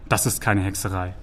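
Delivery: low, soft reassurance; soothing. A narrator's reading. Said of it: "beschwichtigte Sagan den Troll".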